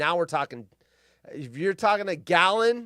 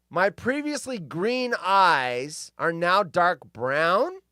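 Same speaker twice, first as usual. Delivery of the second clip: slow reading; 2 semitones higher, 3 dB louder, much slower than usual. Real, not acted. Reading a quote slowly.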